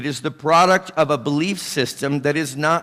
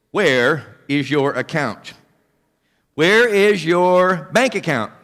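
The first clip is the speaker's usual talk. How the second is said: slow rhetorical question; 3 dB louder, slower than usual. Acted.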